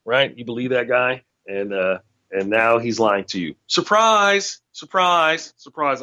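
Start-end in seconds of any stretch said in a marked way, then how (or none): 3.7-6.0 mocking surprise. Real, not acted. Mocking Trump voters.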